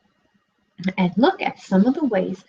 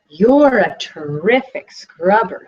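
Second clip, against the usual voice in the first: pleased piglet; 4 dB louder, slower than usual. Acted. Piglet praising the fox.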